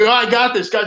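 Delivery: hammed-up boastful buddy insisting he can drive; mocking Kark. Host teasing cohost about his driving, cocky mock voice. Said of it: "he's like".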